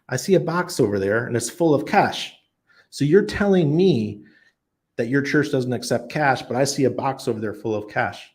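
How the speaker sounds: pointed retold challenge, starting high; incredulous challenge. Visitor confronting church lady about cash box, incredulous challenge.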